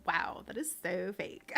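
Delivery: lightly put-on Valley Girl; mock Valley Girl disbelief; Valley Girl accent. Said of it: "used to do the Valley Girl accent".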